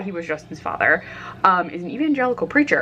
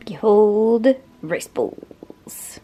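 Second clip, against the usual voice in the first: mock-grand reveal; 3 semitones higher, much slower than usual. Showing off lunch with mock grandeur.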